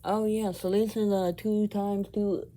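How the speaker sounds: high, cracked dried-out voice; voice drying out. Shown as a demonstration. Showing viewers how chocolate dries out his voice, high and cracking. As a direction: let the voice crack and dry up. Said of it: "all of a sudden it goes".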